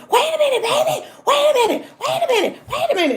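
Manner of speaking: high, loud desperate pleading; pleading boyfriend. Retold or imitated. Boyfriend chasing her down the stairs, pleading high. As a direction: call after her begging her to stop. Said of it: "I can hear him come".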